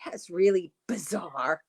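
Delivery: slow, light take on MJ's "really bizarre"; MJ impression. Shown as a demonstration. For the live audience, a slow playful MJ imitation. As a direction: mimic MJ's catchphrase, drawn out. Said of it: "how'd I do?".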